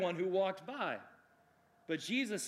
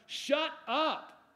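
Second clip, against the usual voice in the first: acted scolding, high and emphatic, easing off; raised mock rebuke in separate, punched phrases; crowd's rebuke; 4 semitones higher, 3 dB louder, much slower than usual. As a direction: shut him down like an impatient crowd. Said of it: "everybody else is like".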